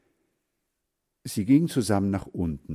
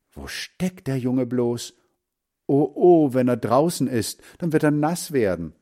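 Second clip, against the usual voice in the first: higher, anxious inner voice; worried mother; 4 semitones higher, 4 dB louder than usual. Acted. Mother fretting at the window over her missing boy, anxious and high. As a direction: let the worry climb with each phrase.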